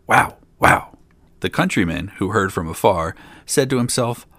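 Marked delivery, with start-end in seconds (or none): 0.1-1.0 loud, rough dog barks; two forceful, separate woofs; loud barking. A narrator's reading. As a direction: bark it out like a pack of dogs. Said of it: "loudly barked".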